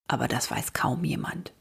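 soft, hushed whisper of a secret; secretive whisper. A narrator's reading. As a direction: let the children in on a secret, whispering. Grandpa shares a secret.

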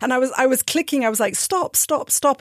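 rising panicked stop, stop, stop; half-laughing urgent pleading; frantic stop. Retold or imitated. Frantic clicking, retold panic.

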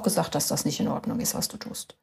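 whispered accusation, trailing to nothing; mock whisper. Husband coming home from therapy, quoting his therapist in a mock whisper. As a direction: hiss it like a secret reproach.

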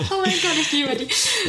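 high, gushing fan voice. Real, not acted. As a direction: swoon over her idol. Host gushes about favourite artist.

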